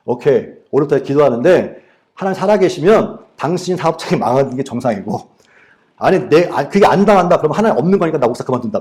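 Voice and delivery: fast, heated threat; retold ultimatum. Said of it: "그분한테 그랬어요".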